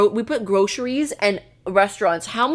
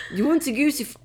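laughing, higher Irish attempt; Irish accent; 5 semitones higher, faster than usual. Shown as a demonstration. Retrying the last accent, laughing Irish accent. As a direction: restart it in Irish, giggling. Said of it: "No, Irish".

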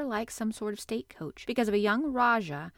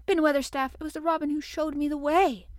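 put-on higher, urgent child's call; calling up urgently; 6 semitones higher, 5 dB louder than usual. A narrator's reading. Mary calling up the wall to explain, urgent. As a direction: call up insistently to him. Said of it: "called up to him with a sort of gasp".

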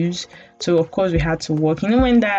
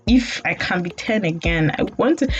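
put-on higher, pleading like a kid; a lighter return of the kid-voice whine; childish whine; 6 semitones higher than usual. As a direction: whine that you want to stay ten. Whining again about growing old.

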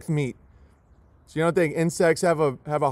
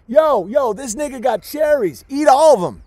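higher, louder chirpy street-bird voice; mock songbird voice; 6 semitones higher, 4 dB louder than usual. Songbirds telling each other, in a higher mocking bird voice. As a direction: play a bird bragging to its friends. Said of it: "They're telling each other".

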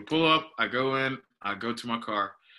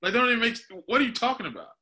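much higher, incredulous rant; indignant disbelief; 11 semitones higher than usual. Retold or imitated. Retelling the tow clerk fight, pitched-up indignant disbelief. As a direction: replay the outrage at the clerk, voice pitched way up.

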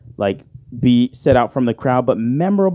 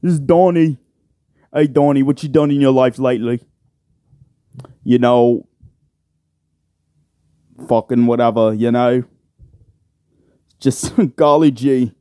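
lightly put-on British host accent. Podcaster parodying the rival show's small talk, British accent. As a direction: chat like a mock British podcaster. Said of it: "that's basically what it sounds like".

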